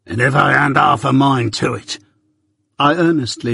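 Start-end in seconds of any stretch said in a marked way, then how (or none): 0.1-2.0 threatening convict. Acted. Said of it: "threatening shake of his head".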